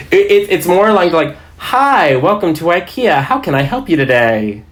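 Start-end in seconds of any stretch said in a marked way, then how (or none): 1.6-4.6 very friendly, vaguely threatening service patter; customer service voice. Shown as a demonstration. IKEA worker greeting a customer, friendly customer service voice. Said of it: "your ikea customer service voice".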